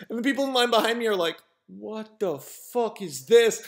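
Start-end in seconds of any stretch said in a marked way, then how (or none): 1.7-3.6 appalled disbelief. Retold or imitated. People in line react, baffled.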